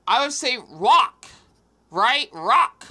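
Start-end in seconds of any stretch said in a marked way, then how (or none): 0.7-1.3 "rock" said like "wock", R turned to W. Shown as a demonstration. Showing how she says rock. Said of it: "With, like, a W sound". 2.3-2.9 "Rock" said like "wock". Shown as a demonstration. Repeating her rock for the listener. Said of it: "With, like, a W sound".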